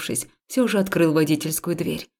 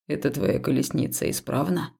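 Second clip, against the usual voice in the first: lightly lower, softer, measured male voice; calm temple man; 5 semitones lower, 4 dB quieter than usual. Acted. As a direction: reason with her gently. Haul's voice. (спокойный храмовник, чуть ниже и тише)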